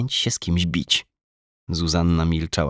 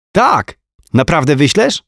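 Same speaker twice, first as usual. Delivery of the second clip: put-on high, chirpy little boy; small boy reporting his cartoon to his mum; child voice; 8 semitones higher, 8 dB louder than usual. A narrator's reading. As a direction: tell it like a proud small kid. Small boy excited about letter.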